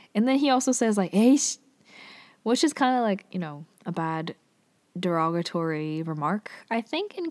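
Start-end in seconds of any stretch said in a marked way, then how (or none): 1.1-1.6 raised, higher-pitched mock outburst; imitated loud curse. Yeol cursing at Hansong during the lecture, mock yell. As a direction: blurt it out as a retold yell. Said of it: "he said it really loud".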